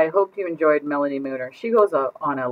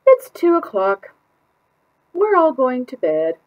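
much higher, louder, slowish call; tired family call; 10 semitones higher, 7 dB louder, slower than usual. Acted. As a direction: everyone calling out at once. Whole family calls to bed.

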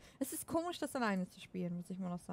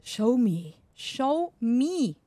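loud English Show me; loud voice command to the game; 8 dB louder, much slower than usual. Shown as a demonstration. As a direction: say it loud at the mic. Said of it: "Ich muss das englischer sagen".

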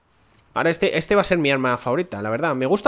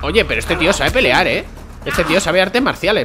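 excited exclaiming; 4 semitones higher, 5 dB louder than usual. Real, not acted. Surprised by enemy fighting skill.

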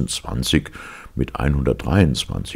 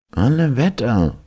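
exclaimed; 12 semitones higher, 4 dB louder than usual. Acted. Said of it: "rief Ben Suff".

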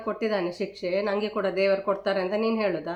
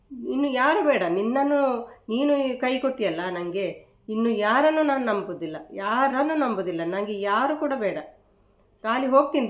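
angry shouting; 3 semitones higher, 4 dB louder than usual. Real, not acted. Shouting at the friend who let her down, angry. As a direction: yell out the betrayal, voice raised. Friend accused of betrayal on live.

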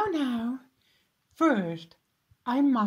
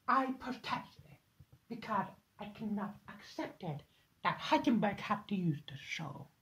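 hushed complaint; 2 semitones lower, 9 dB quieter, faster than usual. Acted. Complaining secretly about Heisenberg.

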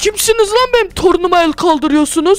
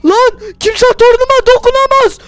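higher, louder raging grandpa shouting at zombies; furious battle yell; 8 semitones higher, 3 dB louder than usual. Acted. Grandpa defending grandson, furious higher louder shouting. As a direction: roar curses at the undead like an enraged old man.

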